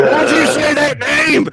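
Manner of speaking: loud, very high-pitched yell; hammed-up dramatic shout; mock outburst. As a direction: cry it out in exaggerated outrage. Mock movie-style outburst at name.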